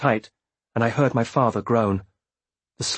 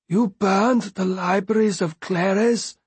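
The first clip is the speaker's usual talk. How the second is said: high, slow, stunned question; devastated disbelief; 8 semitones higher, slower than usual. A narrator's reading. Beloved stares down devastated at Bee, in disbelief. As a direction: ask it high and slow, appalled.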